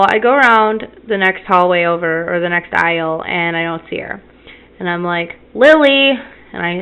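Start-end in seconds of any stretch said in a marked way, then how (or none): 5.5-6.1 put-on higher, louder call for a child; mild retold yell. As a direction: call out for your kid, retelling it. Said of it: "I, I yell".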